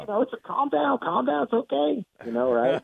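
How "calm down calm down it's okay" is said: high, gentle coaxing; calm a raging coach down; soothing. Retold or imitated. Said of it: "talk him off the ledge".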